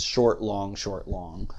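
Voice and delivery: "short, long" chanted as two even pairs; iambic rhythm. Shown as a demonstration. Lecturer showing how we speak in iambic sentences, iambic rhythm. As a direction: tap out "short, long" as a repeating beat. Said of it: "We sort of speak in iambic sentences".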